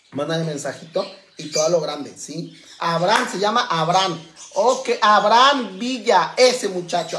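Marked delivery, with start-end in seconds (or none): 4.5-7.2 calling out. Real, not acted. Calling out to a TikTok boy.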